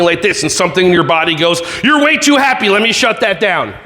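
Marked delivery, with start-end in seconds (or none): 1.8-3.7 mother's voice. Retold or imitated. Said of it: "Why did I sound like my mother?".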